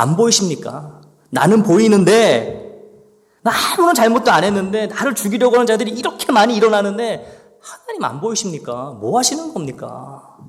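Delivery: slowed, pressing reproach that trails off; a believer protesting to God about his enemies, reproachful; aggrieved complaint. Acted. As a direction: ask God why he doesn't see it, wounded. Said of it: "불평하고 있는 거예요".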